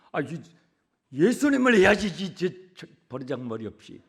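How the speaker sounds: sputtering elder's rebuke, loud burst then dropping off; imitated disapproving grumble; mock scolding elder. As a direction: act out an indignant old-timer. Acts elders scolding young singers.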